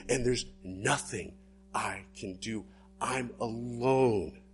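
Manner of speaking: despairing. Acted. Jacob despairing, alone.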